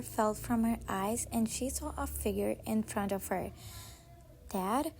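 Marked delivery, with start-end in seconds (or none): 4.5-4.9 broken voice. Acted. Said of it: "Wine said with a broken voice".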